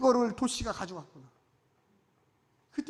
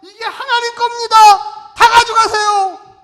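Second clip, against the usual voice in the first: much higher and loud, slow; generous proclamation; 13 semitones higher, 17 dB louder than usual. Retold or imitated. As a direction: give it all away with a joyful cry. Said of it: "내 것이 아니고".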